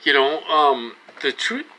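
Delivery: talking through hiccups; hiccuping. Real, not acted. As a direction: hiccups catching the words.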